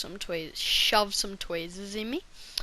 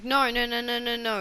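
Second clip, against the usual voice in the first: protest; 3 semitones higher, 5 dB louder than usual. Retold or imitated. Protesting the numbing isn't working.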